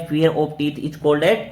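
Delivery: definition read out slowly; slow dictation. Shown as a demonstration. Teacher to students, dictating the definition slowly. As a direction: give them time to write it down. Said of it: "ओडोंटोफोबिया।".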